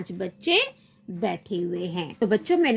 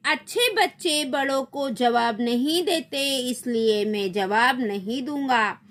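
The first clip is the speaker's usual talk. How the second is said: innocently; 2 semitones higher than usual. Acted. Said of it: "भोलेपन से".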